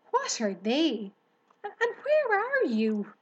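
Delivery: loud, high rising cry; screamed. A narrator's reading. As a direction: shriek the question, flustered. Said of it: "screamed Wilbur".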